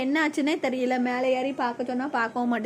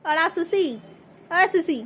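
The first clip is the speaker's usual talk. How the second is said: high coaxing call to a pet; 4 semitones higher, slower than usual. Real, not acted. Calling the pet by name.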